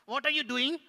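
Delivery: high, loud puppet question; inquisitive puppet. Pretend. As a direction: demand it as the puppet.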